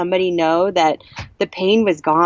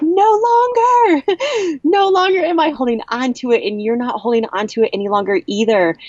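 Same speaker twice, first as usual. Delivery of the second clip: joyful screaming; 7 semitones higher than usual. Retold or imitated. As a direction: scream with release, very high, easing as it speeds up. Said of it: "I just kept screaming and, and joy".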